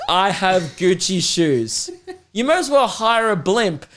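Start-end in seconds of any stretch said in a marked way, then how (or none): 0.1-1.9 slow, drawn-out mock announcement; mock proclamation. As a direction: announce it like a parade float banner. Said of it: "throw a parade with the front float that says".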